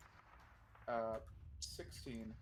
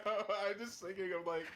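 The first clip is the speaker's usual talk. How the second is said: nerd voice; 7 semitones higher, 7 dB louder than usual. Pretend. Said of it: "you're back to the nerd voice".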